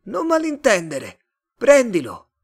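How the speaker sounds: high, loud alien voice; urgent otherworldly call; Martian. A narrator's reading. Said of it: "disse il marziano".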